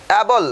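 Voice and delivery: two clear syllables on অ্যাবল; model pronunciation. Shown as a demonstration. Teacher showing learners how to pronounce it, model pronunciation. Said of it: "উচ্চারণ কি বলো".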